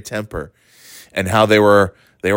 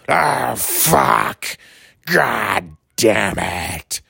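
very slow, drawn-out mock curse; a hint of a raging boss; mock angry swearing; much slower than usual. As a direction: grumble like a sore loser at pool. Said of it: "And scream and swear".

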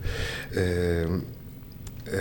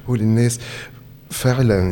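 louder, higher, indignant; raised indignant voice; 4 semitones higher, 5 dB louder than usual. Real, not acted. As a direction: push it out in protest. Heated political complaint.

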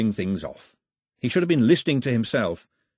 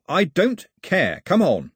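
high, loud, exasperated cut-in; impatient urgency; 9 semitones higher, 5 dB louder, slower than usual. Acted. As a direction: cut him off and urge him along. Mao cuts off the gloating.

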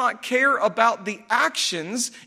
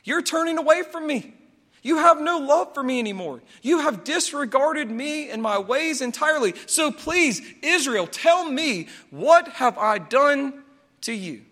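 higher, earnest appeal, slowing at the end; pleading Lord; 4 semitones higher than usual. Retold or imitated. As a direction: plead with a wayward people. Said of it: "He's saying".

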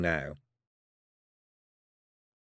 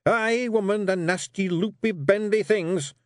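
growling Rob; 11 semitones higher, 4 dB louder than usual. Acted. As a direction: growl out your disgust at letters. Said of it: "growled Rob".

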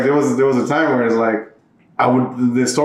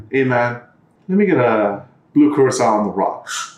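understated, straight-faced imitation of a customer; dead serious; 2 semitones lower than usual. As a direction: order it with total seriousness. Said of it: "dead serious".

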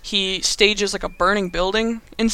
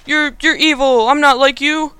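high, louder mock-heroic protest; hammed-up hero standing up to a villain; Spider-Man; 7 semitones higher, 4 dB louder than usual. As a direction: refuse in a put-on, high earnest voice. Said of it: "And he's like".

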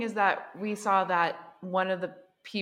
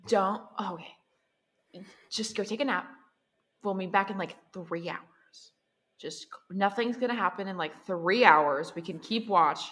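hushed calming; 5 semitones lower, 6 dB quieter than usual. Acted. Calming the crying NPC quietly.

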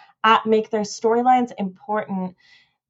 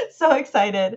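so excited it comes out through a laugh; laughing excitedly. Real, not acted. Podcaster gushing about the Snyder Cut, laughing. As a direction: gush it while laughing.

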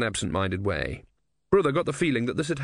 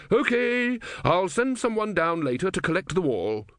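put-on old man voice; 8 semitones higher than usual. A narrator's reading. Legibus leaving.

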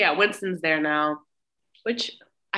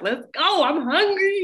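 high-pitched, louder impatient urging; eager boyfriend; 10 semitones higher, 5 dB louder than usual. Retold or imitated. Winston urging Stella out of the car, mock eager. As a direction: play the keen young man raring to go. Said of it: "And Winston's like".

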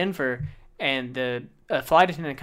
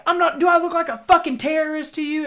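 high, loud indignant mock yell; pitched-up retold scream; imitated screaming; 14 semitones higher, 5 dB louder than usual. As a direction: act out a furious passenger protesting. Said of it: "kept screaming".

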